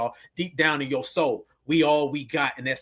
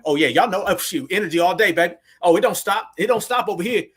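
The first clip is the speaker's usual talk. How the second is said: loud, high hype to the crowd; hype shout; 5 semitones higher, 5 dB louder than usual. Real, not acted. Streamer whipping up his chat, loud and high. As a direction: fire them up, voice raised.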